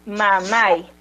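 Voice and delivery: MAMAI with the weight on the final MAI; stress on last syllable. Shown as a demonstration. Teacher showing why it takes an accent mark, final MAI stressed. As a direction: lean on MAI at the end of MAMAI. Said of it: "mayor fuerza de voz en la última".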